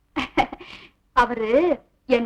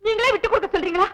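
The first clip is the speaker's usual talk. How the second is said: fake tearful pleading. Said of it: "பிரமாதண்டி உன் நடிப்பு".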